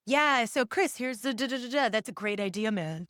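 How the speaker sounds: laid-back skater dude voice; lightly voiced surfer dude; stoked skater drawl. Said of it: "talk like a skater, dude".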